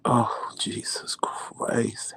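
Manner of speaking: very slow, drawn-out lament; weary exasperation. Retold or imitated. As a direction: stretch each word in fed-up despair. Wife exasperated at renewed screaming.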